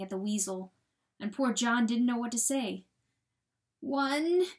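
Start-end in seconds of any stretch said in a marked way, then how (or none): 3.8-4.5 higher, rising whine; whining. A narrator's reading. Coyote counting his dead to John, whining. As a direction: whine it upward, pleading. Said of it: "whined the coyote".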